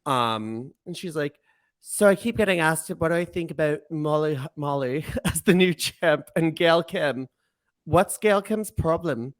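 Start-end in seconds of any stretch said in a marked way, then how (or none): 1.8-9.3 put-on Canadian accent. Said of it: "I'm trying to do a Canadian accent".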